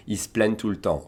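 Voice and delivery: "plaignent" ending almost in a plain n; ñ almost lost. Shown as a demonstration. Teacher showing the lost ñ sound, elided French. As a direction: run "Ils se plaignent" into "iss-plenn". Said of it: "Almost like an N".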